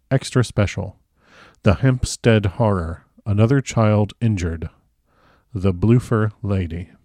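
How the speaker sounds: measured audiobook reading of a newspaper report; story narration. A narrator's reading. Narrator reading listeners a newspaper report about the Bloofer Lady, measured narration. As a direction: read it out clearly, phrase by phrase. Reads the novel aloud.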